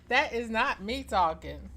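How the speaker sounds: loud amused denial; laughing protest. Real, not acted. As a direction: protest through giggles.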